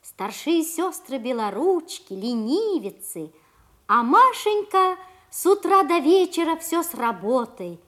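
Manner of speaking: gentle fairy tale narration; grandma telling fairy tale. A narrator's reading. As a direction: tell it like a grandmother at bedtime.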